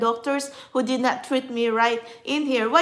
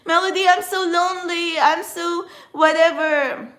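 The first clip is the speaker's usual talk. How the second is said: mock whiny lament; 5 semitones higher, 3 dB louder than usual. Vlogger mocks a friend who cries about loneliness, high whiny mockery. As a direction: parody a self-pitying friend, dragging it out. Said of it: "if you're going to be crying to me and be saying".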